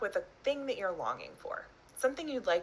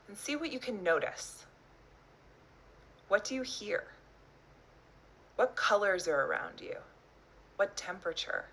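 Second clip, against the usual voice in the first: measured meditation guide, long pauses between phrases; guided visualization. Acted. Teacher inviting listeners to imagine their longed-for future, guided visualization. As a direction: lead them gently inward, leaving space after each phrase.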